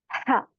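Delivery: हा with air pushed out onto the hand; big ha demo. Shown as a demonstration. Teacher contrasting the big airy हा for students. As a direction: breathe out a strong airy हा. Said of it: "बड़ा हा में क्या different है, वो होता है".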